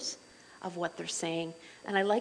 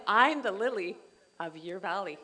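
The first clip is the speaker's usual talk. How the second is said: playful sweet line. Retold or imitated. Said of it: "So I always say to he".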